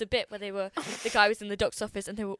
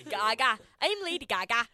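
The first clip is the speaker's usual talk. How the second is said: mock impression of a pop singer; 4 dB louder than usual. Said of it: "What was that?".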